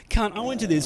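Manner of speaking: high, lightly mocked Aussie lad; young Aussie guy. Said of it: "a couple young Aussie guys".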